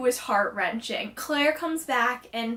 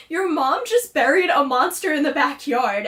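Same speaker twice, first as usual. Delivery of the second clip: mildly agitated, raised-volume retelling; retold freak-out; 4 dB louder than usual. Patience reacting to a monster buried in the backyard, mild freak-out. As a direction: act out a mild mock freak-out. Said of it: "Patience has this freak out".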